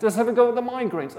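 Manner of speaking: high, impassioned preaching; real emotional fervour. Real, not acted. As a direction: press the case urgently. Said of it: "I'm getting emotional about this".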